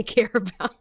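ordinary talk, nothing marked

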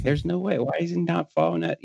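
high-pitched incredulous protest; retold disbelief. Retold disbelief at buck not following.

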